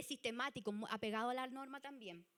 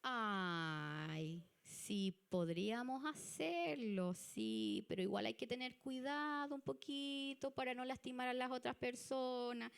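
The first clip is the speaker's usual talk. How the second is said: calm serene type; slower than usual. Retold or imitated. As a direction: hesitate kindly, slowly. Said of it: "la Serena va a estar diciendo".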